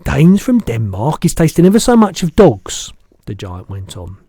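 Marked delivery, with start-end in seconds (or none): 0.0-2.9 the giant's voice. Acted. Giant correcting the girl, big booming voice.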